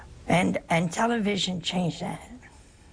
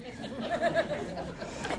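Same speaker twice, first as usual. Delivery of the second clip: a high, breathy burst of laughter; 9 semitones higher, 7 dB quieter than usual. Real, not acted. Laughing after the Italian quote.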